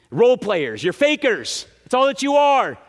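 mildly heated accusation, punched phrase by phrase; blasting rebuke. Acted. Preacher voices Jesus blasting religious leaders for hypocrisy, indignant rebuke. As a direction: blast them with a touch of righteous indignation. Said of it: "Jesus just gets done blasting".

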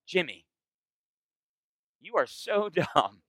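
playful scorn; mock condescension. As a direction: talk down to him with a grin. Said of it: "And I would say".

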